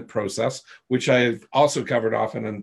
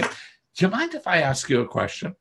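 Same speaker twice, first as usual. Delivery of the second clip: a touch softer, politely asking permission; polite and calm; 2 semitones higher, 3 dB quieter than usual. Shown as a demonstration. Coach answering a pushy downline member, politely calm. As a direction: calmly ask leave to question them. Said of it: "politely, calmly, relatively calmly just say".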